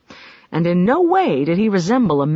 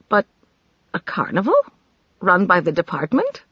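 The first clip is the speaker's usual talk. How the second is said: incredulous. Acted. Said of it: "She said incredulously".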